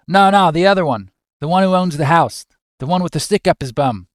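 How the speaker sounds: attempted Australian. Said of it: "I can't do Australian".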